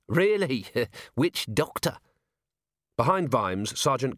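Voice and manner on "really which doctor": incredulous laugh, slowing down; laughing disbelief. Acted. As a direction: scoff with a laugh. Mocking question to Vimes.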